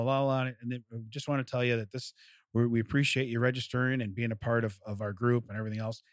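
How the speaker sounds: mock-glum phone spiel, sagging low; imitated dejection. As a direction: imitate a rep who sounds like his dog just died. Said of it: "this guy sounds like, like literally someone just murdered his dog".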